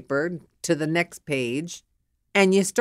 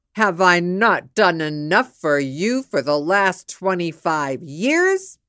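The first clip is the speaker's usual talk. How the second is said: insulted husband; 4 dB louder than usual. Acted. Insulted husband rounding on his wife, indignant. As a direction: storm at her, wounded and offended. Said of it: "The minute he is insulted".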